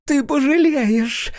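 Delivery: very high, loud, slow shriek; enraged drunk woman shrieking; shrieking threat. Acted. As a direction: screech the threat after him. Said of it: "взвизгнула она".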